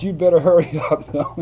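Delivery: high, loud, mock-angry order; fuming. Fuming bank president hurries the photographer, angry retold order. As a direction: imitate a man fuming as he gives in. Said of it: "He's just fuming all over".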